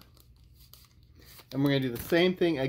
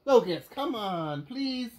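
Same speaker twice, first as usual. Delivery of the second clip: coaxing pet voice; 9 semitones higher, slower than usual. Real, not acted. Pleading with dog.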